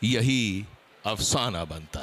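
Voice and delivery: slow, measured recital of a verse; couplet recitation. Acted. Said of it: "कुछ थोड़ा सा शेरी अंदाज". (शेर पढ़ने का अंदाज़)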